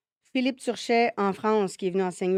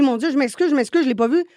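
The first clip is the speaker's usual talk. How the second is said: 1 flustered apology; 3 semitones higher, 6 dB louder than usual. Retold or imitated. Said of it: "il me dit".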